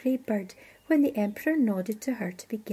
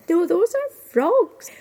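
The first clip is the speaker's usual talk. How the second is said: high, loud, slow correction; emphatic correction; 7 semitones higher, 8 dB louder, slower than usual. Acted. Kitchen girl corrects the servant about frogs, emphatic. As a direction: set them straight, word by word.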